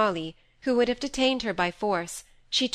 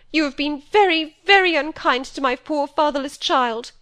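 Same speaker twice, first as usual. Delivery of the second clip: higher, louder aggrieved wail; tearful complaint; 7 semitones higher, 8 dB louder than usual. A narrator's reading. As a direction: whine it as a wronged mother. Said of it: "emerging from behind her pocket handkerchief".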